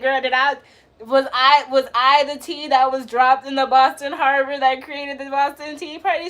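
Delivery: mock-astonished question to friend; playful disbelief. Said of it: "And I was like".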